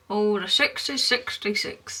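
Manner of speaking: slow, dragged "sixty-six" with no lift at all; bored bingo call. Retold or imitated. Modern bingo caller reading numbers to players, bored and dull. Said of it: "It's kind of boring".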